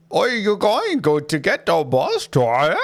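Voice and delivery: imitating a thick Australian accent. Ticket seller asking about the bus, mock Australian accent. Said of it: "That's how he sounded".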